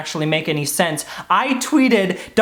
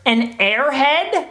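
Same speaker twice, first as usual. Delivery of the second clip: slow, rising high question; drawn-out, higher squeaky try; hunting for the squeak; 5 semitones higher, much slower than usual. Shown as a demonstration. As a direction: stretch it upward to test the voice. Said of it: "It's in there some".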